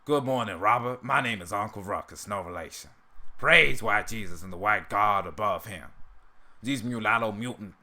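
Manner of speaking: lightly voiced cartoon character; a loose attempt at a cartoon character's voice; Uncle Ruckus impression. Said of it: "that's how I would do".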